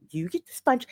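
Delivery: high-pitched mock bossy instructions; telling them what to do. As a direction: imitate someone handing out chores, stressing each "you". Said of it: "telling them".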